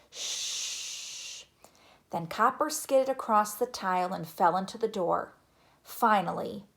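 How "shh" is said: long, hushed shh; whispered shush. A narrator's reading. Child chasing the dog out of the kitchen, whispered shush. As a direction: shush them under your breath.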